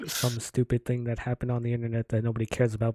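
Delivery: loud, hyped YouTube host intro; YouTuber voice. Retold or imitated. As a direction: pump it up like a vlogger. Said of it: "Sound like a commentator".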